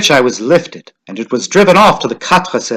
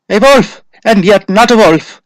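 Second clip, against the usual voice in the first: high, shuddering dread; higher, frightened hush of horror; 8 semitones higher, 4 dB louder than usual. A narrator's reading. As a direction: say it as if a chill runs through you. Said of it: "another put in shudderingly".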